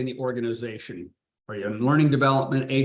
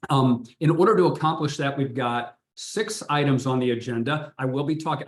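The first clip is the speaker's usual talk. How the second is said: too much caffeine. Real, not acted. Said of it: "I am highly caffeinated right now".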